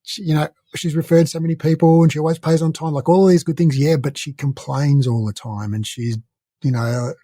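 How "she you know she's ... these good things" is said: higher-pitched gushing over a client; lightly acted, pleading list of someone's virtues; mock defending. Voices the client's good points.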